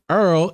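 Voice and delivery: EARL for oil, New Orleans style; Southern pronunciation. Shown as a demonstration. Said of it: "With the southern pronunciation in New Orleans".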